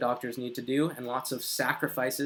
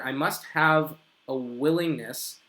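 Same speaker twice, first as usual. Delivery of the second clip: slow model sentence; slower than usual. Shown as a demonstration. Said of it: "you would say, to fix the grammar".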